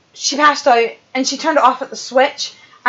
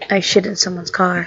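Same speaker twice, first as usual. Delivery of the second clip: laughing; 6 semitones lower, 3 dB quieter than usual. Retold or imitated. Repeating the line through laughter.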